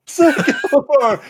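high shouted demand; bully demand. Retold or imitated. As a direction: bark it at the victim.

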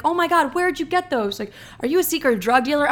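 high-pitched mock amazement; imitating astonished date. Date gaping at her counted-out hundreds, mock astonished.

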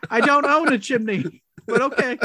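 high, loud chimney sweep; squeaky salesman pitch, loud and high. Pretend. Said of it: "Why is the chimney sweep back?".

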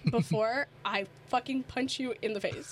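low, held-in anger, acted out; retold restrained threat. Fed up, telling Alana to shut up, retold threat. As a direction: imitate warning a friend through simmering anger.

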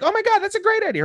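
very high, fast excited squeal; very high fast excited mother; thrilled mother. Retold or imitated. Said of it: "And then she's like".

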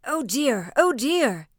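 high, loud wail of dismay; crying out. A narrator's reading. Schultz struck by a rake handle, crying out. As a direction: cry out as if struck and beaten. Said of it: "cried Master Schultz".

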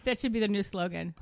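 light laugh through the words; amused, gentle chuckle; kind gentle laugh. Real, not acted. Laughing at Hawaii slogan.

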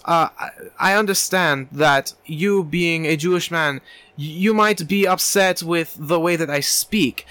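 put-on slow, measured German accent. Therapist explaining his background to offended patient, German accent. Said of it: "he, like, talks in a German accent".

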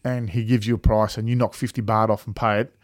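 usual speaking voice

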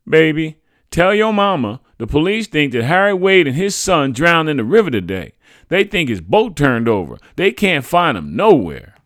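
high, loud woman with swooping pitch; neighbor woman. A narrator's reading. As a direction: call out troubling news, high and loud. Neighbor woman gives alarming news.

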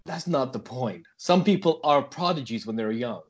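deep American voice. Pretend. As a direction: hold a put-on American voice. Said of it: "supposed to be American and deep".

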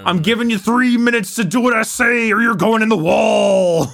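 hammed-up wrestler yelling a threat; wrestling promo voice. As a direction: bark it like a ring promo. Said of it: "turned into a wrestling promo".

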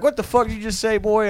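high-pitched indignant demand; mock outraged dad. Dad on the phone to his son, mock outraged. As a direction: imitate a father who can't believe his ears.

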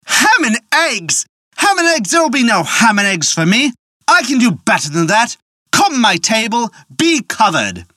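offended. A narrator's reading. Jack scorns the innkeeper's ham and eggs, indignant and high-pitched. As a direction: scoff at the innkeeper's poor offer. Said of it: "got an offended look in his eye and said".

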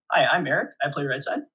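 imitating a buddy's deadpan introduction. Buddy introduces himself to the yelling opponent, deadpan. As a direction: introduce yourself, completely unfazed. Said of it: "completely deadpan".

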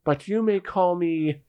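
skeleton voice. Acted. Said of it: "the skeleton speaks up and says".

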